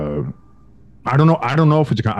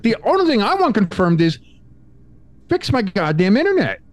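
laughing demand; 10 semitones higher than usual. Retold or imitated.

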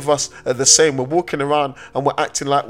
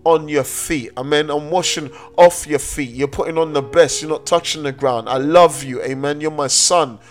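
louder, rising preacher's cadence, voicing the father; fervent pulpit preaching; preaching at full force; 4 dB louder than usual. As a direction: build the congregation up with the father's welcome.

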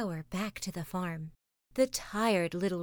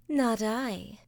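sleepy cat purring; 3 semitones higher, 3 dB louder than usual. Acted. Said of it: "purred the sleepy cat".

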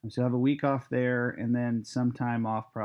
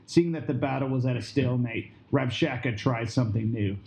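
story narration. A narrator's reading. Narrates the drama.

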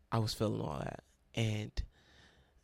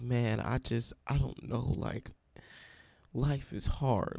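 tearful lament; 2 semitones higher, slower than usual. Retold or imitated. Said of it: "Like, I'm crying".

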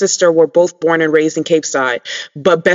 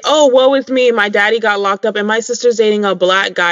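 lightly voiced whiny girl, a little higher; mock self-pity; 4 semitones higher than usual. Host imitating Jen's complaint in a lightly whiny voice. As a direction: mimic a self-pitying teen, lightly.

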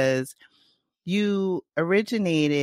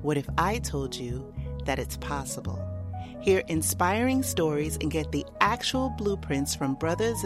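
sultry narrator; 4 dB quieter than usual. Acted. Intro over music, guided imagery.

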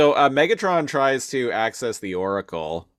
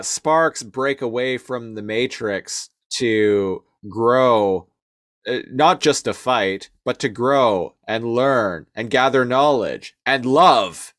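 earnest Primal; slower than usual. Retold or imitated. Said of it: "so what he says is".

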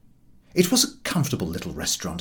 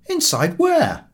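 louder, higher and slow call; called back; 12 semitones higher, 5 dB louder, slower than usual. Acted. The narrator calls back to the gentleman, loud and slow. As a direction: shout back across the distance. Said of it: "I called back".

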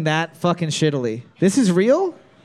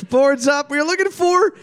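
game show answer reveal; 6 semitones higher than usual. Pretend. Host announces the quiz answer.

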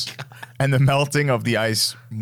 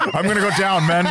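heroic captain; 7 semitones higher, 4 dB louder, faster than usual. Pretend. Mock heroic captain quote.

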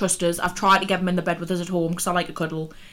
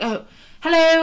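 high, hammed-up posh hello; mock her mum's put-on posh greeting; posh phone voice; 8 semitones higher, 4 dB louder than usual. Daughter mocking mum's fake posh phone voice. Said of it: "puts on a fake, like, a, a posh accent".

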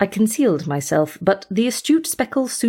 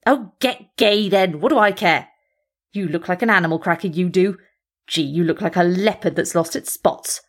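defiant. Acted. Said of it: "saying defiantly".

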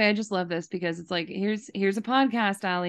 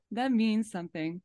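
laughing through it; 4 dB quieter than usual. Real, not acted. Host repeats line, laughing.

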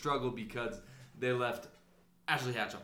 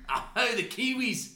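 slow, higher put-on Aussie drawl; mock Australian accent; 6 semitones higher, much slower than usual. Co-host answering in slow mock Australian accent. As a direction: savour it like an outback local. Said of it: "I can't do those accents".

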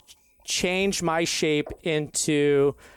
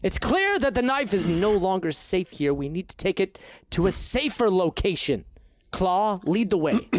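lightly voiced Verdon Kemble; 3 semitones higher than usual. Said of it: "perfect Verdon Kemble accent".

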